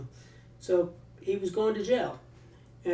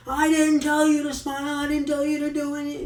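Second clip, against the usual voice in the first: high, loud angry yell, faster at the end; 10 semitones higher, 6 dB louder than usual. Retold or imitated. Guard turns back on the prisoner, high loud yell. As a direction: scream it down at him. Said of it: "and just starts yelling at him".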